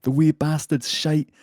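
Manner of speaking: loud, high mock Scottish; attempted Scottish accent. Host reads out the angry complaint in a loud, hammed-up Scottish accent. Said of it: "Scottish thing to say".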